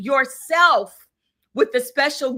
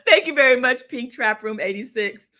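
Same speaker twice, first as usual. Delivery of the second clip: laughing thanks; 3 dB louder than usual. Real, not acted. Host laughs as she thanks Pink Trap Room. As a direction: thank you through a laugh, quick.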